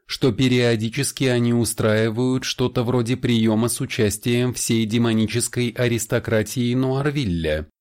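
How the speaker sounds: a hint of a suave vampire; lightly voiced vampire. Vampire Sarin's voice in dialogue. (слегка обозначенный голос вампира)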